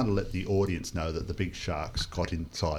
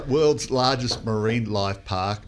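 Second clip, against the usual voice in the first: mock grand slogan; 4 semitones higher, 6 dB louder, slower than usual. Mock-grand echo of park slogan.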